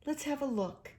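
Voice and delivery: kindly. A narrator's reading. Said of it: "said the rat kindly".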